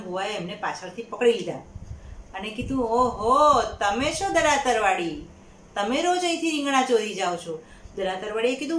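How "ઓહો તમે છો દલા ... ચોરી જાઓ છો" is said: loud, drawn-out gotcha; catching a thief. Acted. Farm owner catches the man stealing aubergines, loud accusing. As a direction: pounce on him with a slow accusing ring.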